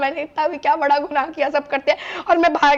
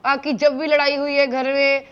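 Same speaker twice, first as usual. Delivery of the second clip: guilt-tripping plea. Retold or imitated. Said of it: "emotionally इतना manipulate करा".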